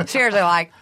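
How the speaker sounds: quick pop star impression of a singer. Asked for a nano impression, quick pop star voice. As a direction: sum up a pop singer in two words. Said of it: "What's a way to do her quick?".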